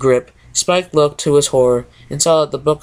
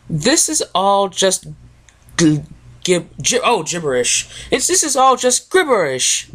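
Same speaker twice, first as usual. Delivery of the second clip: higher, dramatic lady's moan; Rarity moaning; 4 semitones higher than usual. Acted. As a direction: wail it like a fussy lady. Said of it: "she moaned".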